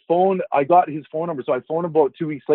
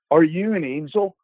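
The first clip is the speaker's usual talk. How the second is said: retold in earnest, slightly hushed; serious question; 3 semitones higher than usual. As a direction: imitate someone asking in all seriousness. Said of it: "with this serious look".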